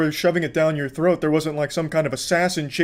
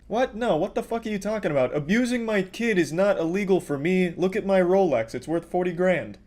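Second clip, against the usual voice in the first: higher-pitched entitled rich lady; mock entitled Karen; 5 semitones higher than usual. Commentator mocking the woman with the Rolex, higher entitled whine. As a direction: flaunt it like a spoiled rich lady.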